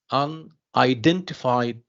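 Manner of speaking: "unidentified" slowly, un-i-DEN-tified; stress on DENT. Shown as a demonstration. Teacher testing students on stress, slow "unidentified" stressing DEN. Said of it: "so dent here is the stress syllable".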